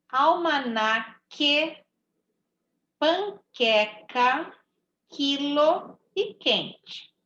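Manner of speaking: esquisito, almanaque, panqueca said slowly with a plain k and no U; slow teaching read. Shown as a demonstration. Teacher showing pupils the silent U, slowly. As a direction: stretch each word and keep the U silent. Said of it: "não tô ouvindo o som do U".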